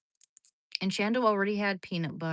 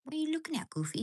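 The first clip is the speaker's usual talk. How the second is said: much higher squeaky coo; 9 semitones higher, much faster than usual. Real, not acted. Woman squeaking a question at her dog.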